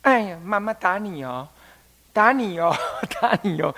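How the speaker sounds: mock threat, not meant at all; lightly playful fake scolding, with a chuckle; half-hearted scolding. Shown as a demonstration. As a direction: toothless mother pretending to threaten a spanking. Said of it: "虚应事故".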